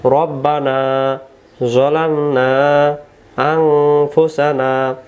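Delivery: slow, careful Quranic recital; slow recitation. Shown as a demonstration. Teacher reciting the phrase again for viewers, slowly. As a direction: recite each word slowly for learners. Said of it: "আবার".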